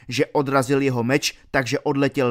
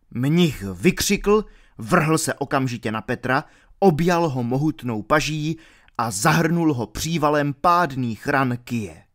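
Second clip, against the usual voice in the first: usual speaking voice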